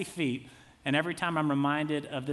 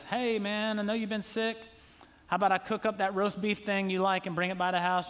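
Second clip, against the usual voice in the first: friendly neighbor; 5 semitones higher than usual. Retold or imitated. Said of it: "somebody says".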